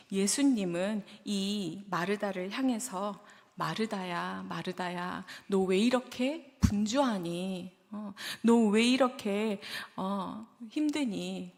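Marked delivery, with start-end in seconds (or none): 3.6-11.5 gentle. Retold or imitated. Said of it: "이렇게 말씀하시지 않았을까요?".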